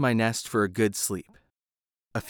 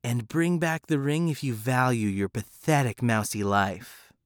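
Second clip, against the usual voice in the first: menacing cat. Acted. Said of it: "she said".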